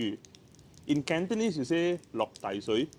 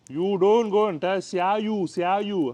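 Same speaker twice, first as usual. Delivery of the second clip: louder, higher mock-scolding "xia yu"; wrong way, mocked; 6 semitones higher, 7 dB louder than usual. Shown as a demonstration. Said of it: "it's not xia yu".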